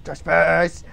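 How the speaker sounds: tiny high-pitched squeaky chant; silly little high voice; caricature voice. Acted. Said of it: "And then he's like".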